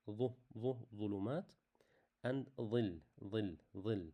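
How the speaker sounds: ظ and ظل said heavy and full; emphatic Arabic letter. Shown as a demonstration. Teacher demonstrating ظلمات and ظل to learners. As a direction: model the emphatic ظ clearly. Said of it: "Like in the word الظلمات".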